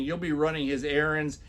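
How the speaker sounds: usual speaking voice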